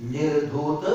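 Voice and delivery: nirdhūta with ta completed; full ta in nirdhūta. Shown as a demonstration. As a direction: sound out the last syllable of nirdhūta. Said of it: "त का उच्चारण पूरा करें". (निर्धूत में पूरा त)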